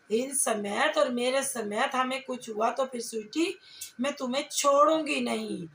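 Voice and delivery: ordinary talk, nothing marked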